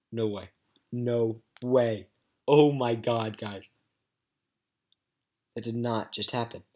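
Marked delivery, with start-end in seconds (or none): 0.1-3.7 shocked disbelief. Real, not acted. Disbelief at legend pull.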